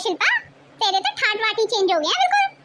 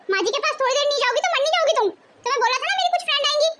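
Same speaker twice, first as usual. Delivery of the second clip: quick, irritated telling-off; angry scolding; 4 semitones higher, faster than usual. Acted. Elder sister-in-law scolds Pallavi over the messy house, angry. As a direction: scold her briskly, raised in pitch. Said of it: "आप गुस्सा मत कीजिए".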